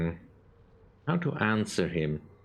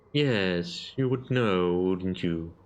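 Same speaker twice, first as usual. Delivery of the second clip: god of murder voice; much slower than usual. Acted. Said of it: "I can't do the echo on the voice".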